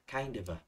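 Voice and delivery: "Kind of a" said as one joined chunk; natural linking. Shown as a demonstration. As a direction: run "Kind of a" together, kain-də-və. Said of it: "it's very natural in speaking". (nối liền "Kind of a" thành một cụm)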